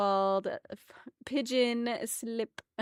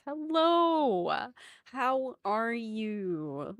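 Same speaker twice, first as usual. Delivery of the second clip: cute anime streamer; much slower than usual. Acted. Cute greeting to chat.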